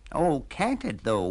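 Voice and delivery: a moping cat feeling sorry for itself; mild mock wail. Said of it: "wailed the cat".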